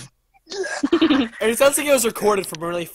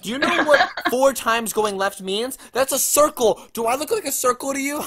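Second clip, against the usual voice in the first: mock indignant; 4 semitones higher than usual. Mock indignant GPS rant.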